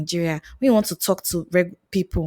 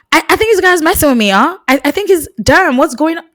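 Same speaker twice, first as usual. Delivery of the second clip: mock confused returnee; 9 semitones higher, 7 dB louder than usual. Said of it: "you'll be like".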